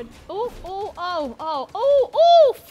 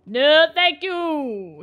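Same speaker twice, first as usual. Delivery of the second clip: softer refusal; 4 dB louder, much slower than usual. Real, not acted.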